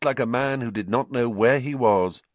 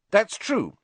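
higher-pitched, lightly voiced girl; Hermione's dialogue voice; 12 semitones higher, 3 dB louder than usual. A narrator's reading. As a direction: agree in a high character voice.

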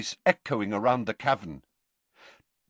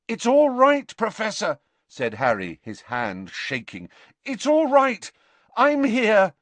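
high, louder urgent comforting; anxious comforting, voice raised; urgent reassurance; 10 semitones higher, 5 dB louder than usual. A narrator's reading. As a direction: reassure him through mounting panic. Harry urgently reassures the panicking Dumbledore.

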